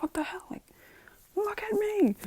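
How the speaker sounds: whispery mock yell, strained high; Bakugo irritated. Bakugo demands his distracted rival's attention, irritated. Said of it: "Bakugo's kinda getting irritated by this".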